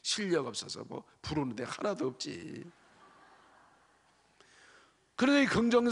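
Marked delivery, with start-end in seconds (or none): 0.0-2.7 scoffing critic. Retold or imitated. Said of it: "부정적인 사람 뭐라 그래?".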